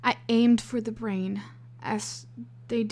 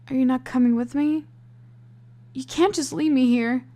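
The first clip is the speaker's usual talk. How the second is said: higher, louder, fast pleading; desperate plea; 3 semitones higher, 6 dB louder than usual. A narrator's reading. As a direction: beg him not to leave. Heroine begs not to be left.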